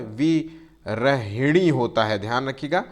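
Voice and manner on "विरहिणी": विरहिणी stretched very slowly, each syllable clear; slow careful spelling-out. Shown as a demonstration. Teacher showing students the correct spelling slowly. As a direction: draw out विरहिणी for dictation. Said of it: "विरहिणी को जो है इस तरीके से नहीं लिखा जाता है".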